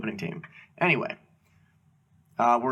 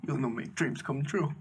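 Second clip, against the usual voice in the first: holding back tears; 6 dB quieter than usual. Retold or imitated. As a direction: imitate a choked-up guest, kept quiet. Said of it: "trying to hold back tears".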